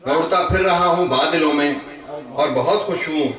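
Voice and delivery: measured Urdu verse with pauses between phrases; ghazal recitation. Acted. Poet shares his ghazal with friends at a gathering, measured recitation. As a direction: recite each line to the room, lifting the repeats.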